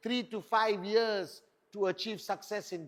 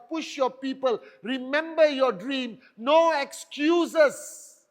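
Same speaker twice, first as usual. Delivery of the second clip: building rally shout; 3 semitones higher, 6 dB louder than usual. Real, not acted. Rallying crowd, building to climax.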